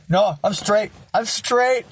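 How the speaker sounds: mock protest. Acted protest against the accusation.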